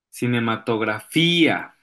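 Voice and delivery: "Cinematografía" with a strong, stretched FÍ; sílaba acentuada fuerte. Shown as a demonstration. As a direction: lean hard on the í in "Cinematografía". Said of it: "que suenen fuerte en su pronunciación". ("Cinematografía", alargando y marcando la í)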